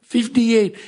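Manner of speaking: a Russian-accented "Fifty-eight", lightly imitated. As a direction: mimic the Russian friend saying "Fifty-eight". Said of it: "he talks with a Russian accent".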